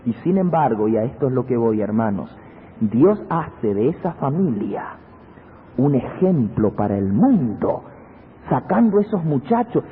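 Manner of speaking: normal talking voice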